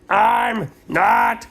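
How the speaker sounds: high, drawn-out whiny cry; sleepy protest. Retold or imitated. Sleepy boy whining his denial to mom. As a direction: whine it up high as he dozes. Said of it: "and he went".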